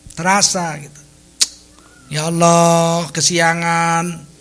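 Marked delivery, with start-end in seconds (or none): 2.1-4.3 mock-weeping, drawn-out regret; tearful lament. Preacher voices a believer regretting a late dawn prayer, tearful lament. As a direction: lament it slowly, as if crying. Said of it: "nangis dia".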